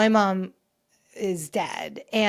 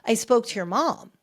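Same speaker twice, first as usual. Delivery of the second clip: lightly imitated posh British accent; Fergie; 3 semitones higher than usual. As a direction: retell it with a touch of posh British. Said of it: "in her very posh British accent".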